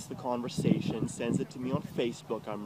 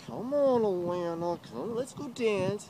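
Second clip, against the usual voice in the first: pleading; 8 semitones higher than usual. Retold or imitated. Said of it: "I'm like".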